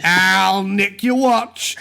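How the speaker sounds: hammed-up Cockney street urchin; mock Cockney orphan. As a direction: play a Cockney orphan pestering a passer-by. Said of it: "little Cockney orphans going around going".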